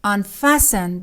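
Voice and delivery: Unfasten said with no t sound; silent t. Shown as a demonstration.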